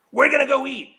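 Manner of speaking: mimicking her bossy friend, high and whiny; mocking Lori. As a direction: whine it like a demanding friend who's hungry. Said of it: "we had to go on her schedule".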